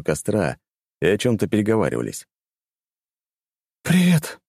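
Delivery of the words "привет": cartoon princess. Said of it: "голос принцессы прозвучал приглушённо".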